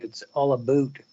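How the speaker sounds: "boot" with a long Canadian oo for "about"; exaggerated Canadian accent. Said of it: "You got that Canadian thing".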